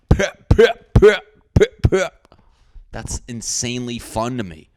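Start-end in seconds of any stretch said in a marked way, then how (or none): 0.1-2.3 very high, loud squeaky pep pep; giddy little pep pep over a Diet Coke; excited squeals. Pretend. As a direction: squeal with glee. Excited celebration noise.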